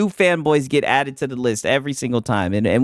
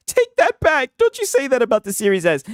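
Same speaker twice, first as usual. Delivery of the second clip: mock whiny fanboy; 9 semitones higher than usual. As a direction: play a hurt console fan, hammed-up. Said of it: "Nobody was like".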